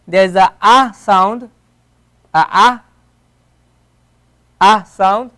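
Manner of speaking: an open, lengthened ah; ah vowel. Shown as a demonstration. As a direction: open ah sound, drawn out. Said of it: "like the word apple".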